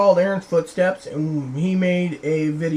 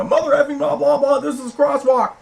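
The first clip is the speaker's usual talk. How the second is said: higher, louder mock cursing; imitated angry rant; 9 semitones higher, 4 dB louder than usual. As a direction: imitate his outburst at the driver. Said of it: "he'd go".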